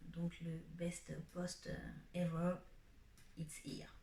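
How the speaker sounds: slow English with a heavy French accent. Real, not acted. Vlogger showing off her seats in French-accented English. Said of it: "On apprécie mon accent".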